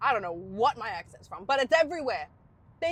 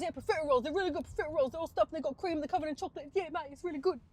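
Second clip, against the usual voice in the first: higher-pitched Yorkshire lad; Yorkshire schoolboy; 4 semitones higher, faster than usual. Acted. Schoolmate recommending profiteroles, enthusiastic Yorkshire accent. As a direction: enthuse like a Yorkshire boy about dessert. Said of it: "He's a Yorkshire boy as well".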